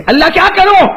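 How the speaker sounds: high, loud anguished cry to God; desperate father's cry to God; desperate plea. Acted. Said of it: "نے اللہ کو پوچھا".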